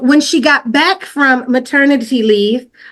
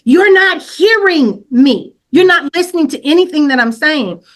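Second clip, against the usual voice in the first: high-pitched mock yell, pressing hard; exasperated, raised-pitch retold scolding; 5 semitones higher than usual. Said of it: "I'm yelling at her".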